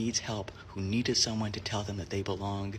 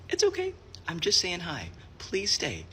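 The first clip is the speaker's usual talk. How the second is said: higher, soothing tone; gentle reassurance; 8 semitones higher than usual. Retold or imitated. Librarian asking a visitor to stay, higher and reassuring. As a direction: reassure someone who is about to bolt.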